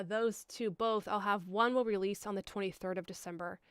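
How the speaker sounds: ordinary talk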